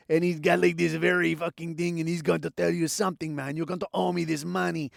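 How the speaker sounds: lightly put-on New York hustler accent; mock street hustler. Comic imitating the racing character, mock street hustler accent. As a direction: slip into a hustler's ethnic caricature accent. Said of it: "like this New York City, like, street hustler".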